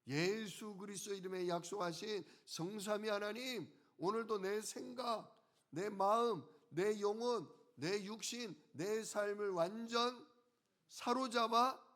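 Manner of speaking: earnest prayer, lifted in pitch; demonstrated morning prayer. Acted. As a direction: pray it out in short, rising phrases. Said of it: "우리가 아침에 눈 뜨자마자 무슨 기도해요".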